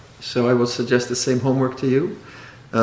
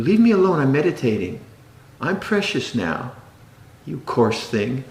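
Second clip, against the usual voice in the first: a hint of a prissy meditator; mock precious meditator. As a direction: tease a self-important meditator shooing people off. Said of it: "precious experience".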